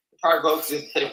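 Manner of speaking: ordinary delivery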